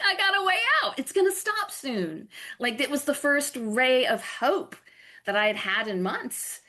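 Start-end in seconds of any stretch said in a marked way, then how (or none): 0.0-2.3 a sudden high, lifted burst of relief; relieved happiness. Retold or imitated. Remembering the moment she found a way out, relieved lift. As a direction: voice the first ray of hope, rising high.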